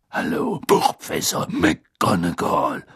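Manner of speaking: slow, low, casual greeting; in no hurry at all, pitched low; unruffled. A narrator's reading. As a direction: draw the greeting out calmly. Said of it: "sagte Moody gelassen".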